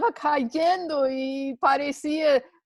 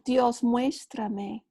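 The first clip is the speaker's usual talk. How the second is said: humble plea; much slower than usual. Shown as a demonstration. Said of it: "con esta actitud humilde".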